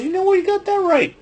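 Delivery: high, held-out wrestler catchphrase; catchphrase shout. Retold or imitated. Opening the recap in a big catchphrase voice. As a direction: belt it like a ring announcer.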